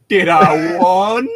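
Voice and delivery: goofy slow confused question; silly confused voice. Pretend. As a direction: play it dumb and dazed. Friends reading a story aloud, goofing.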